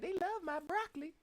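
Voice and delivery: very high squeaky imitation of a woman; imitating a lady. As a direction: mimic her in a high squeal. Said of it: "the lady the other day was like".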